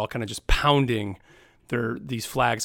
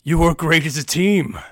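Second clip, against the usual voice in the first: lightly voiced orc ally, a bit louder; pleased orc warrior, a hint of gruffness; Brachus praising; 2 semitones higher, 4 dB louder than usual. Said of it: "and he sees".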